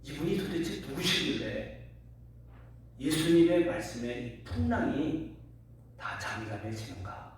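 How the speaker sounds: retold astonishment. Disciples marvel at the calmed storm, retold astonishment. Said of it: "그 제자들이 너무 놀라요".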